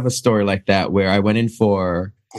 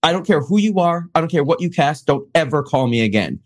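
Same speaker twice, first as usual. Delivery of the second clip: mock furious; 6 semitones higher than usual. Actor tells the casting director never to call again, in mock anger. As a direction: tell her off in a mock rage.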